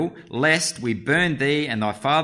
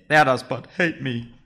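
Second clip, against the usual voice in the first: put-on girly voice; 3 semitones higher, 3 dB louder than usual. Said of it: "Can't do my very good girly voice".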